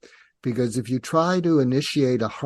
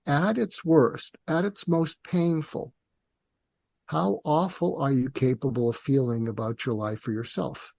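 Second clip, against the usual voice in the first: said calmly. Shown as a demonstration. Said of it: "and you say it calmly".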